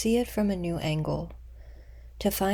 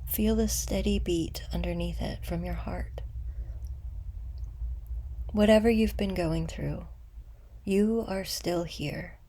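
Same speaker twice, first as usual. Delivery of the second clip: unhurried meditation guide, long pauses between phrases; guided meditation; 4 dB quieter than usual. Acted. Guide leading listeners to meet an old wound with compassion, guided meditation. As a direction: guide them gently inward, letting phrases settle.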